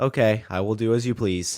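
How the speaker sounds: lightly stilted game-character reply; a hint of video game character; NPC voice. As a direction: answer like an obedient scripted NPC. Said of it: "sound like an N P C right now".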